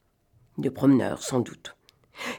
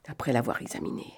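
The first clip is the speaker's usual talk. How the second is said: plain reading voice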